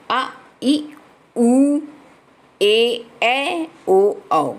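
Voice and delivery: each of आ, ई, उ, ए, ऐ, ओ, औ held long as a separate vowel. Shown as a demonstration. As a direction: stretch out आ, ई, उ, ए, ऐ, ओ, औ one by one. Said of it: "हर्ष स्वरों से दुगना समय".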